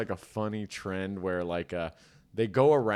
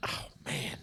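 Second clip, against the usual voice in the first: mock dread; 5 semitones higher, 11 dB quieter than usual. Suspect cornered by cop in skit.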